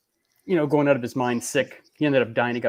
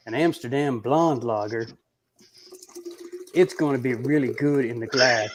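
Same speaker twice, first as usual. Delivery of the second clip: imitating Brian. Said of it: "I will show you my impersonation of Brian".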